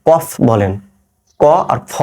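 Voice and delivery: "কফ" with an ordinary front k; wrong qaf. Shown as a demonstration. Teacher warning of the mistake, ordinary k in "কফ". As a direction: say "কফ" plainly, without the throat q. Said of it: "আপনি যদি শুধু কফ বলেন".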